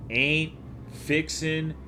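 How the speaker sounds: usual speaking voice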